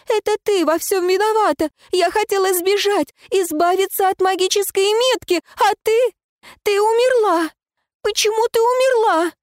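high, loud tearful accusation; sobbing blame hurled at her; crying out. Acted. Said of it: "плакала, трясла меня и кричала".

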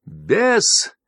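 high, sharp cry of the name; almost squeal it out; a sudden high yelp; near shriek. A narrator's reading. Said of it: "почти взвизгнула та".

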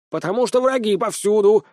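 high, alarmed outburst; indignant. Acted. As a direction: paranoid hen shouting warnings. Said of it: "возмутилась курица".

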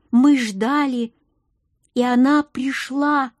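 solemn storyteller reciting a prophecy; ancient-tale intonation. A narrator's reading. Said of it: "С такой интонацией, словно рассказывал нам древнюю сказку".

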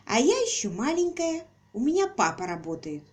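put-on high, bright child voice; little girl voice. A narrator's reading. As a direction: chirp like a small girl.

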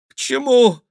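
high, pleading little cry; plaintive question. A narrator's reading. The frightened king asking his captors why, plaintively. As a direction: ask it helplessly, almost whimpering. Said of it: "спросил жалобно король".

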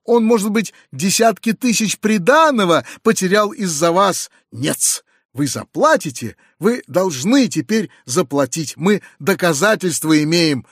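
choking with rage. Acted. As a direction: spit out the accusations in fury. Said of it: "задыхаясь от злости".

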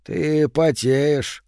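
very slow, puzzled murmur; bewildered. Acted. Madman suddenly noticing the sweat, bewildered and slow. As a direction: say it as if dawning on you. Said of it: "растерянно произнёс он".

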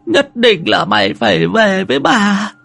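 put-on high, slow, worried old woman's voice; a frail grandmother calling her grandson anxiously. Grandmother pleads, high, far, slow. (giọng bà cụ già lo lắng, cao và chậm)

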